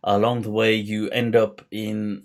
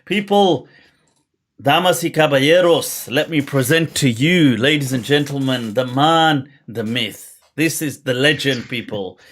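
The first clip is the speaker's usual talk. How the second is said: lucha libre announcer. Acted. Host hypes the guest like a ring announcer.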